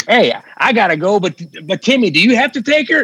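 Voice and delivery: put-on old school comic. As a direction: play the cheesy old-school comedian. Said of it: "It's that old school".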